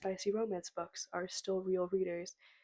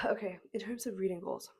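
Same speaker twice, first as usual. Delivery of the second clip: breathy unvoiced restart; whisper. Real, not acted.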